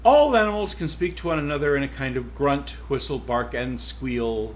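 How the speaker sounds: lively first-person read as the cow narrator; story narration. Acted. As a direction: tell it as the wry old cow herself. Reads novel aloud as cow.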